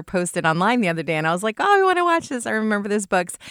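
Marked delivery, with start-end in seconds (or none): 1.6-3.4 high, louder burst of eager recognition; mock-gushing at a childhood favourite; retold excitement. Host retelling her reaction to the trailer, excitedly.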